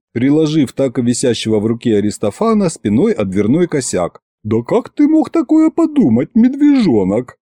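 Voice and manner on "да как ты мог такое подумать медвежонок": put-on high, pleading old woman; coy witch. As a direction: protest sweetly and high. Ягута оправдывается. (жеманная Ягута)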